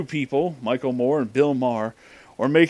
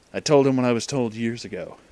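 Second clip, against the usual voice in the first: usual speaking voice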